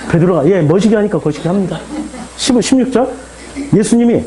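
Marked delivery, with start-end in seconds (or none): 0.5-1.8 understated Jeolla-dialect reply; a touch of Jeolla accent. Acted. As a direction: answer plainly in Jeolla dialect. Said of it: "전라도 말로 제가 번역해서".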